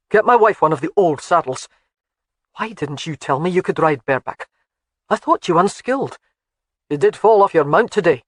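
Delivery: lightly voiced stern lord; stern husband. Husband scolds wife about riding bareback, lightly stern.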